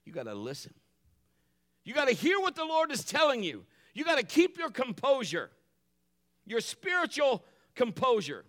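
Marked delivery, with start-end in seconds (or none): 1.8-8.4 raised, high preacher's exhortation; forceful call to the congregation; emphatic preaching. Real, not acted. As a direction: preach it loud and high, punching each phrase. Preacher drives the point home.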